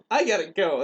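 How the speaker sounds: lightly acted alarm; retold fleeing kid. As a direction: blurt it as an imitated upset boy.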